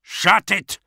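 high, loud, curt command; barked order. A narrator's reading. Brig officer silencing his prisoner, barking an order. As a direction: bark it at the prisoner. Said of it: "ordered the officer of the brig".

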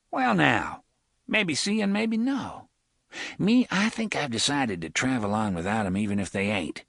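lightly voiced sly gunman; lightly voiced Reynolds. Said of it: "Reynolds voiced in story".

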